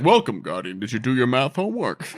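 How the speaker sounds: lightly voiced dry authority figure; a touch of deadpan officialdom; Zavala, dry. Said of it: "Zavala is just so fucking dry".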